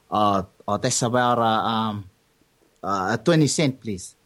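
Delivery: lightly put-on Samoan accent; hesitant shopkeeper in a mild Samoan accent; a hint of Samoan accent; best Samoan accent. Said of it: "this is my best, um, Samoan accent".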